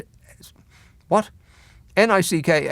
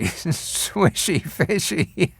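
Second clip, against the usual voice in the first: very slow, laughing repeat; 2 semitones higher, 3 dB quieter, much slower than usual. Shown as a demonstration. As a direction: savour the name through laughter.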